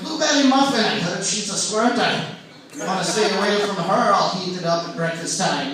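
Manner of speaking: loud, hammed-up Scottish accent; Sean Connery. Comic as the star joking about a toy, loud Scottish accent. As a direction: boom it out in a mock Scottish brogue. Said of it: "he could get away with saying that".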